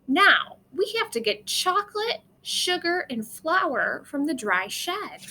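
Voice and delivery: urgent grandma. Acted. Grandma urging in the story.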